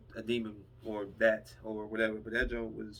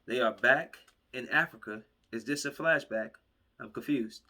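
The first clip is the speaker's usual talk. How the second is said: confused outburst; 5 dB louder than usual. Retold or imitated. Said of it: "I said".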